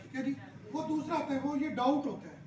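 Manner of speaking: ordinary delivery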